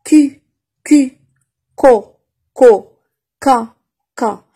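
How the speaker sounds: crisp clipped syllables ko ko ka ka, said loud; drilled syllables. Shown as a demonstration. Teacher drilling syllables to French learners, loud and crisp. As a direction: sound out each syllable for the class. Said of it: "comme vous voyez ici".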